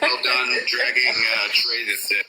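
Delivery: glitchy call audio with echo. Real, not acted. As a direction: voice repeating through a bad connection. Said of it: "You gotta echo".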